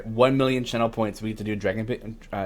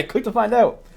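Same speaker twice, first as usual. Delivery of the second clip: laughing clickbait echo; 11 semitones higher, 5 dB louder than usual. Pretend. Echoed with a laugh, higher.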